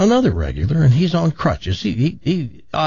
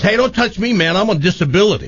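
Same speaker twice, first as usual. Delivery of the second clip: panicked refusal; 5 semitones higher, faster than usual. Acted. Crippled man refuses healing.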